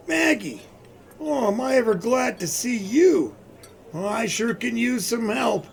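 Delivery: Santa-like jolly voice. Acted. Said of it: "you sound just like Santa Claus".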